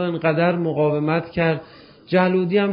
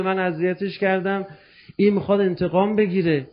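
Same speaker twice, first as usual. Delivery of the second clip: desperate plea. Acted. Condemned man cries out to Mamun.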